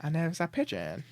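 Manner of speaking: lightly put-on scam caller voice; a hint of a prank caller's accent; Phone Jacker. Echoing co-host's prank call, light impression. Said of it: "It sounds like phone jacker".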